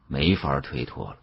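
ordinary delivery

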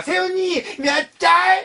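high, slow sing-song question; babyish cue. Shown as a demonstration. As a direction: coax a child sweetly. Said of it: "자, 갑니다".

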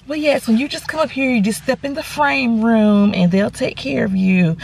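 mock-sweet, slowing as it goes; sweet customer-service tone. Receptionist finally being nice to a customer, mildly sweet. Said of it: "you shoulda had that tone all the while".

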